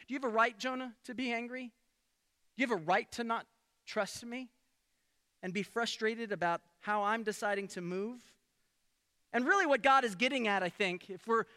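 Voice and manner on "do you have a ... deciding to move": quiet patient challenge; gentle God. Retold or imitated. God asking Jonah again, soft and patient. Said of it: "God asked the same question".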